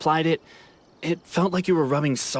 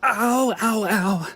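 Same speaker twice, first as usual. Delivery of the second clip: pained ow; 6 semitones higher, much slower than usual. Acted. Injured man feels pain.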